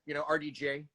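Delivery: lightly voiced offhand movie-star impression, slightly low; Robert Downey Junior. Shown as a demonstration. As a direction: toss it off like a self-assured film star. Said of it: "my Robert Downey Junior".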